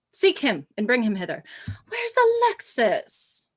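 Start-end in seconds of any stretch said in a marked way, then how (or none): 1.9-3.5 high, slow call. Acted. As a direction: call across the room. Queen calling for her servant.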